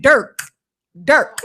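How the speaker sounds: Derek squashed into "Dirk"; Dirk, repeated with an "ur" vowel; Baltimore pronunciation. Retold or imitated. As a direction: say Derek as one syllable, "Dirk". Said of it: "The guy kept saying".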